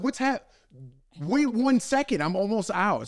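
high, slow calling. Retold or imitated. Husband calling from the shower to his wife, high and drawn out. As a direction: stretch it to carry over the water.

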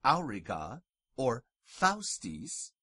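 auriga and faustis with "ow". Shown as a demonstration. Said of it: "pronounced au".

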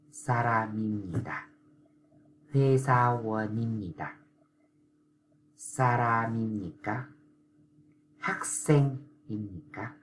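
nim nhì tà, each syllable slow and clear; slow drill. Shown as a demonstration. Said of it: "dễ dàng đọc được là".

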